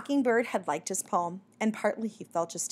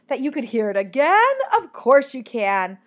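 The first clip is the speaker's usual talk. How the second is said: loud, higher, effusive welcome; warm; 4 semitones higher, 8 dB louder than usual. A narrator's reading. Mockingbird grants the bat's request, warmly and loudly. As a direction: gush it warmly, stretching the assent. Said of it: "The mockingbird said warmly".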